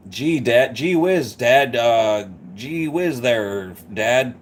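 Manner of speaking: lightly voiced gee-whiz American son; mild mock American wholesomeness, drawn out at the end; Dick Van Dyke. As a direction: answer as a halting all-American dad. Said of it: "the dad's like".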